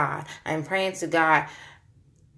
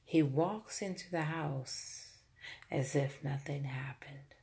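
very soft, sinking into a whisper; hushed disbelief; 11 dB quieter than usual. Real, not acted. Mother telling how he walked in as if nothing happened, hushed. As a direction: drop to a stunned near-whisper for the punchline.

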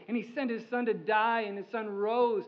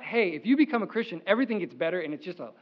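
mock false promise; 2 semitones lower, 3 dB louder, faster than usual. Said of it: "It's not".

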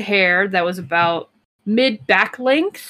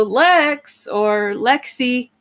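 mom calling out; 4 semitones higher, much slower than usual. Retold or imitated. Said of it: "I'll hear my mom's voice go".

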